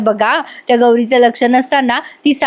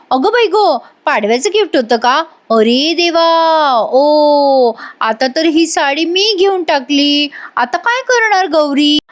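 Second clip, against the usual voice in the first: mock-shocked, pitched up and slowed on the saree line; fake surprise; 4 semitones higher than usual. Ragini fakes shock at Gauri's Padwa gift, a hammed-up gasp. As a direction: ham up innocent dismay.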